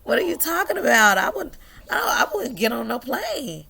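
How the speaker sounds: high, fast incredulous protest; high-pitched disbelief; excited protest. Real, not acted. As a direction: protest it, laughing at the idea. Joking protest.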